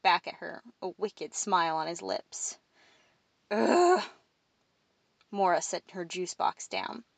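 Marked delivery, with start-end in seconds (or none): 3.5-4.0 higher, exasperated "ugh"; annoyed groan. A narrator's reading. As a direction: groan at being given the chore. Reluctant Mora groans at request.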